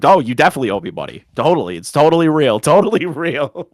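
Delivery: mock-sincere insistence, rising into laughter; trying not to laugh. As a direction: imitate someone gaslighting while holding back a laugh. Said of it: "he's trying not to laugh".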